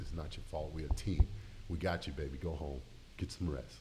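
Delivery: holding back tears. Real, not acted. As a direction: quote the teammates gently through tears. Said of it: "Sorry, y'all".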